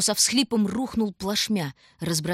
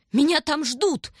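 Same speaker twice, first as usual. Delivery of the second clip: high, loud, slow wail; wailing yell; 9 semitones higher, 4 dB louder, slower than usual. A narrator's reading. Starving stranger begging to keep the sled, wailing yell. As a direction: howl it out as a desperate plea. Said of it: "вопил незнакомец".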